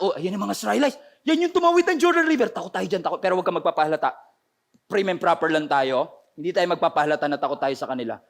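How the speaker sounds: low, hushed, nervous townsfolk voice; frightened Jericho citizen. Retold or imitated. Jericho guards whispering to each other, lightly voiced and nervous. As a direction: talk low like a scared guard pretending to be calm.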